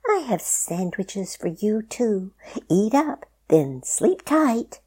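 high, slow, gentle lullaby voice; kind sheepdog voice. A narrator's reading. Lottie tucks them in.

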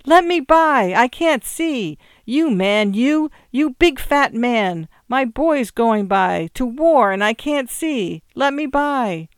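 frantic high pleading cry; loud, agonized appeal, words stretched; choked, high little voice. A narrator's reading. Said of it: "a choked, high little voice, cried".

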